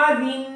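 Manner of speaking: آرین with a held nasal n; nasal hold. Shown as a demonstration. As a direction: hold the نون in آرین through the nose. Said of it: "یہاں پہ آواز کو دو second ناک میں روکنا ہے".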